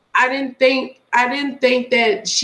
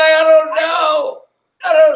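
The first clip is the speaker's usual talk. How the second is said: imitated crying; 4 semitones higher, 5 dB louder than usual. Teasing her friend about crying that night, mock sobbing. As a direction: wail it like someone in tears. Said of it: "No, you were crying".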